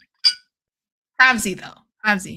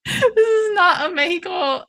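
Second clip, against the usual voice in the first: laughing; 8 semitones higher, 3 dB louder than usual. Real, not acted. Laughing at the shot glass.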